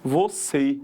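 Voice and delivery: "você" with a closed final "ê"; closed vowel sound. Shown as a demonstration. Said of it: "indica um som fechado".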